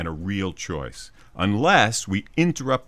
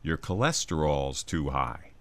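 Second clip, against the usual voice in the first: lower, softer killjoy doctor voice; stick in the mud voice; 4 semitones lower, 5 dB quieter than usual. Acted. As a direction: nag like a dull, stern doctor. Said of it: "stick in the mud voice in your head".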